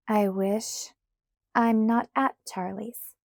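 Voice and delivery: a touch of sourness; lightly sour and put out. Acted. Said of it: "I said sourly".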